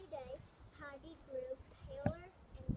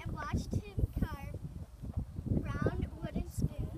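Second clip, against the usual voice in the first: loud slow reading; 10 dB louder, much slower than usual. Real, not acted. Child reading aloud loudly, slowly.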